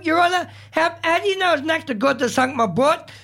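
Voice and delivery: put-on light Scottish accent, Billy Connolly style; a hint of Scottish accent. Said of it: "you're doing a Scottish accent there".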